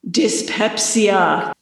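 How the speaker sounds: slow, drawn-out ghostly reply; terse ghost. Acted. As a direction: say it like a curt spooky ghost. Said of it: "answered the ghost briefly".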